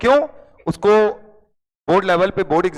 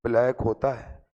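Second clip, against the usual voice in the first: 1 dim friend insisting; 10 semitones lower, 8 dB quieter than usual. Retold or imitated. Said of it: "वो क्या कह रहा है?".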